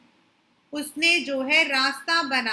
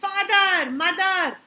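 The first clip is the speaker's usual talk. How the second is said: raised cry for his parents; shrieked call; 3 semitones higher, 3 dB louder, much slower than usual. Acted. Lost child in the crowd calling out, mock shriek. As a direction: call out for father and mother, a little raised. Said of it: "shrieked at the highest pitch of his voice".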